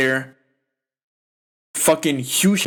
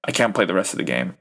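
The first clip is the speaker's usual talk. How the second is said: imitating injured player; 6 semitones lower, faster than usual. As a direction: voice him defeated and hurt. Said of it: "He's like".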